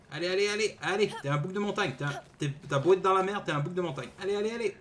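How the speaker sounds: high urgent encouragement; cheering on. Real, not acted. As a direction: pump up the climber. Cheering on climbing character. (encouragement enthousiaste)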